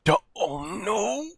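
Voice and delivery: high, drawn-out cry of dismay; horrified "oh no" at the screen; real dismay. Real, not acted. Dismayed reaction to the show.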